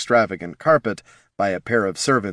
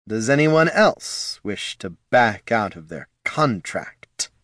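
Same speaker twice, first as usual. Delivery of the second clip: menacing; slower than usual. Acted. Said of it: "he growled".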